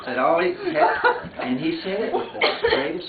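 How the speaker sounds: laughing too hard to finish; words swallowed by laughter. Real, not acted. Reading the letter to relatives, overcome with laughter.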